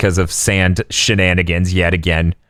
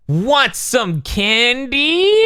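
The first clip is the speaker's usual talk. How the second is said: high, long drawn-out mock creep voice; creepy offer; 13 semitones higher, much slower than usual. Cone offering candy on screen, creepy. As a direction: sing it out slow and high, stretching the last word.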